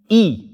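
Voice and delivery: "I" as a clear "ee"; i sound. Shown as a demonstration. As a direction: give "I" a clean ee vowel. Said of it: "heeft een i-klank".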